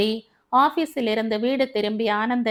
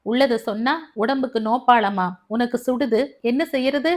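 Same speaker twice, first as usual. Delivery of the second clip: exploding; 2 semitones higher than usual. Acted. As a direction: burst out at her. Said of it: "மாமியார் வெடித்தாள்".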